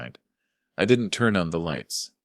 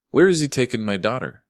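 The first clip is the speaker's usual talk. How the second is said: louder, higher, pressing question; desperate demand; 8 semitones higher, 6 dB louder than usual. Acted. Father pressing Sarah about his daughter, desperate. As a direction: push hard for the answer.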